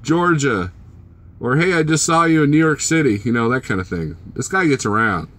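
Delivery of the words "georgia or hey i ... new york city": mimicking viewers. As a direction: imitate eager fans. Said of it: "people text going".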